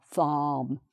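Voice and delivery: "farm" as "faahm", open "ah" and no R; open vowel. Shown as a demonstration. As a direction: model British "farm" with silent R. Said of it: "an open vowel sound".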